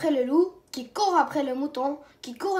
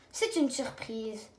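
softer, slower secretive tease; smiling teasing; 3 semitones lower, 7 dB quieter than usual. Acted. Aunt teases Caillou about the gift, smiling. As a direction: keep the secret with a smile. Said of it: "en souriant".

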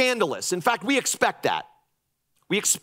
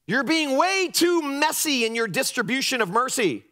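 scolding religious critics; 4 semitones higher than usual. Acted. Religious leaders scolding Jesus.

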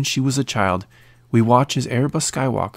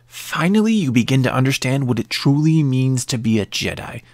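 cackling wicked witch; 2 semitones higher than usual. Acted. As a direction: sneer it like a cackling hag. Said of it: "long cackling laugh before saying".

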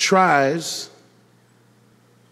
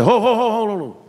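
retold stammer; 7 semitones higher, faster than usual. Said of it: "I didn't say that like that".

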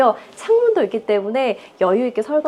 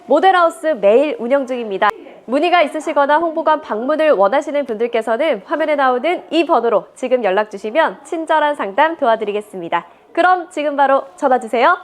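hard sell ad; 2 semitones higher than usual. Acted. Closing ad pitch.

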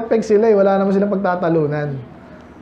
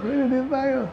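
other twin insisting; 5 semitones higher, 7 dB quieter than usual. Retold or imitated. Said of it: "Yung isa".

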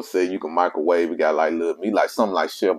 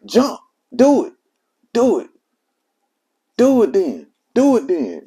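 high, strained imitation of pleading; retold pained urging; 5 dB louder than usual. Friend answering a man on the bridge, imitated high and pained. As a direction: mimic a friend pushing through distress. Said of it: "he was in pain hearing me".

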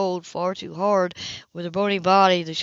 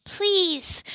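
tearful plea; 11 semitones higher than usual. Acted. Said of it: "began to weep in loud, racking sobs".

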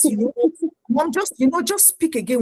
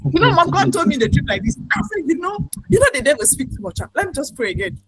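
higher, voicing a stubborn church member; mock congregant; 5 semitones higher than usual. Member telling mom she'll just pray again, mocking tone. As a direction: play the member who only wants to pray.

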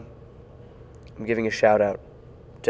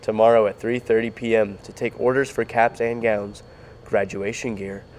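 announcer voice. Pretend. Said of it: "I should use my sick voice to be like an announcer".

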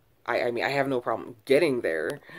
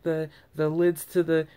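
sympathetic worker; 4 semitones higher than usual. Retold or imitated. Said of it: "And she was like".

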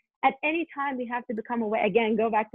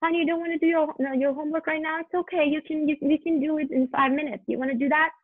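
put-on higher, light coaxing mother talking to her child; light, gentle parent voice; 5 semitones higher than usual. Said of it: "just be light".

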